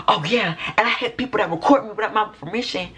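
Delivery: high-pitched mock yelling; retold scream. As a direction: imitate her calling out high, without full volume. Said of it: "she scream out".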